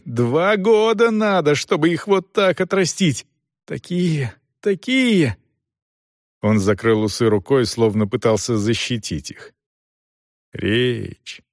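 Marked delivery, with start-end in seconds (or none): 0.0-5.4 high, drawn-out indignation; anguished protest. A narrator's reading. Son laments his precious moustache. 10.5-11.4 restrained, drawn-out reproach; reproachful. A narrator's reading. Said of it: "с укором сказал Селдон".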